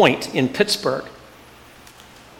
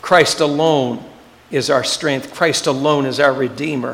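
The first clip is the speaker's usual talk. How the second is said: solemn declaration; 2 semitones lower than usual. Acted. Solemn declaration after build-up.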